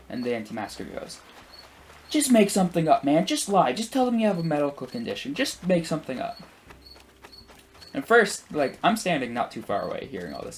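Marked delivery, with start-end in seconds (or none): 2.1-6.4 high, pushy imitation of a heckler; mock exasperated badgering in a raised voice; mock pestering. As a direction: urge him insistently, pitched up. Retold anti-masker badgering the man.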